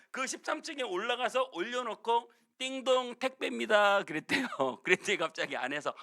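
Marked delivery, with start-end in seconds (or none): 2.6-4.0 raised, sing-out doorbell announcement; courier calling out. Acted. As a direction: call up to the door as a courier. Acted doorbell and courier call. (문 앞에서 외치는 택배 기사 말투)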